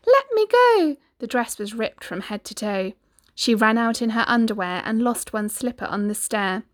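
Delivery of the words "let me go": high, loud desperate shout. Acted. Cindy tearing free from the prince, high loud shout. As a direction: yell to break free. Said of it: "and Cindy shouted".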